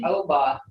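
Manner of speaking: oba with a long English O; English-style mispronunciation. Shown as a demonstration. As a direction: say oba wrongly as "OH-buh". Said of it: "We have no such word as".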